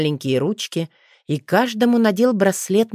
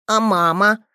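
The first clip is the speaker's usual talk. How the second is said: frowning; 4 semitones higher than usual. Acted. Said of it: "нахмурился Лео по-взрослому".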